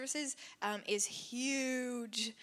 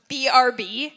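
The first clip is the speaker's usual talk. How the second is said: laughing slang; 13 dB louder, slower than usual. Pretend. Host tries youth slang, laughing.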